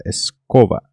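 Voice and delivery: "escova" in two careful parts, es-COVA. Shown as a demonstration. Teacher repeating for learners, careful v in "escova". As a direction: stress the middle of "escova", with a v sound. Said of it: "dessa maneira".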